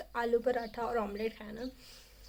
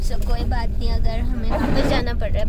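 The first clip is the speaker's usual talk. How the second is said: on a bumpy road; 11 dB louder than usual. Real, not acted. Talking loudly in moving car.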